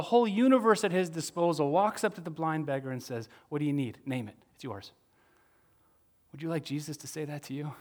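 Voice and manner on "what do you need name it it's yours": tender offer. Retold or imitated. Jesus voiced offering gifts.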